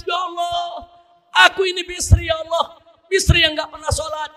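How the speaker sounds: crying repentance. Acted. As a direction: weep out the confession to God. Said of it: "Begitu bangun dia nangis".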